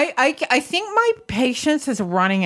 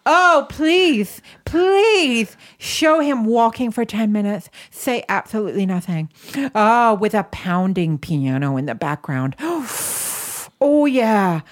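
hammed-up breathy moans of pleasure; mock aroused moaning. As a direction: overdo the ecstatic sighs. Mock aroused reaction to documentary.

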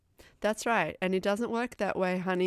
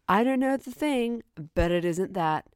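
mock indignant insistence; 6 dB louder than usual. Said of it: "And I'm like".

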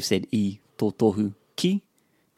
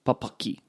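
soft "papaki", middle pa stressed; stress on second syllable; 5 dB quieter than usual. Shown as a demonstration. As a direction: echo "papaki" leaning on the second pa. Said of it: "Other words like this".

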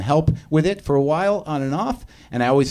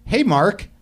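"Hey, Mark" pitched high with a rise at the end; perky rising greeting; 10 semitones higher than usual. Shown as a demonstration. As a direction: lift "Hey, Mark" way up like a question. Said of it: "I wanna say it like that".

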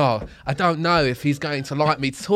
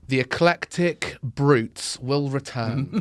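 film end card; 4 semitones lower, 3 dB quieter, slower than usual. Acted. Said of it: "it comes up and it says".

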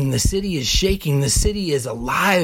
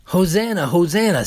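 crowd's plea; 3 semitones higher than usual. Retold or imitated. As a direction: lift Hosanna like a crowd begging rescue. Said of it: "They mean".

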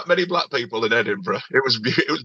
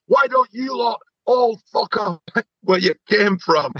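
racist heckler; 8 semitones higher, slower than usual. Retold or imitated. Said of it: "all of a sudden he goes".

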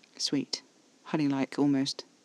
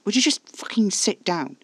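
higher-pitched, exasperated command; growled order; 6 semitones higher than usual. A narrator's reading. Caspar ordering panicking Alfie to sit, angry and exasperated. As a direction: order it with impatience, no room for argument. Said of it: "Caspar growled".

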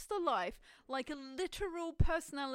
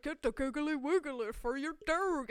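infomercial voice; 3 semitones higher, 5 dB louder than usual. Retold or imitated. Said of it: "ten-minute infomercial".

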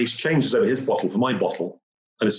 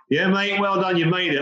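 much higher, bright congratulating voice; cheery climbers; 9 semitones higher than usual. Retold or imitated. Men at the summit congratulate him cheerfully. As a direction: congratulate a tired climber heartily. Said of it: "And they're like".

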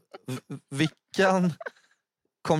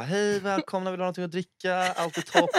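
ljusare, vänlig värdinneröst; härma en välkomnande värdinna; varmt, lugnt välkomnande; 5 semitones higher than usual. Retold or imitated. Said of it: "fick så ett varmt, lugnt välkomnande". (varmt, lugnt välkomnande)

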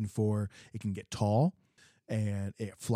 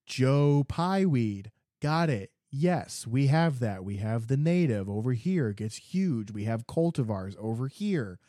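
1 mock helpful clerk; 3 semitones higher than usual. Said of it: "I was like".

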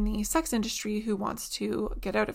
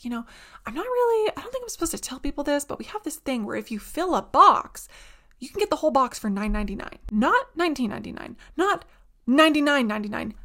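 lady's excited secret; 4 semitones higher, 5 dB louder than usual. Retold or imitated. Bookstore lady shares a secret deal.

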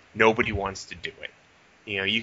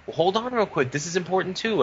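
mock dismissive manager; 9 semitones higher than usual.

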